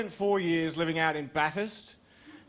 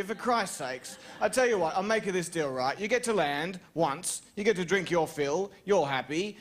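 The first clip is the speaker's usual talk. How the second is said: negotiating with mosquito; 3 semitones higher than usual. Retold or imitated. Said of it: "I would say".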